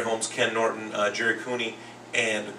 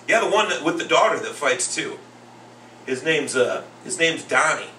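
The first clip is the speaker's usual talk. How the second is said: put-on higher-pitched insistent kid; inner-city little boy; 4 semitones higher, 4 dB louder than usual. Second grader explains to teacher who he means, imitated little boy. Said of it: "an inner-city little boy".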